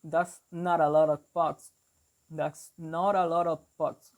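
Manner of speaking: Boston demo, NOT and BUCKS with open 'ah'; Boston accent. Shown as a demonstration. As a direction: show learners the Boston vowel in 'bucks'. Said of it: "in Boston, they will say, like".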